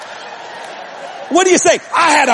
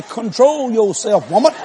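scolding husband; slower than usual. Retold or imitated. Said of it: "so I could say".

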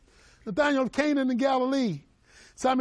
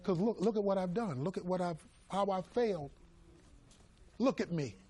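broken self-reproach; 7 dB quieter than usual. Acted.

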